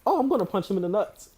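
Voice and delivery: calm casual quote. Retold or imitated. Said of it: "how calmly Giannis said".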